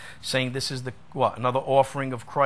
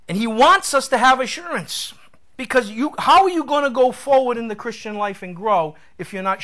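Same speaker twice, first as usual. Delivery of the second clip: higher-pitched, impassioned preacher; emphatic preaching; 7 semitones higher, 5 dB louder than usual. Acted. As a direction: press the point home, voice raised high. Preaches with raised force.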